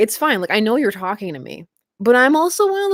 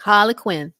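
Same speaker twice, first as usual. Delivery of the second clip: failed Boston attempt that drifts Southern; Boston accent slipping Southern. Shown as a demonstration. Trying Boston on a character's name, accent slipping Southern. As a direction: aim for Boston and slide into Southern. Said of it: "Now it went Southern".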